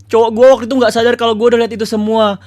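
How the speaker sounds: high, loud, over-the-top reading of a viewer's letter; dramatic story reading. Acted. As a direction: read it like a melodrama, loud and high.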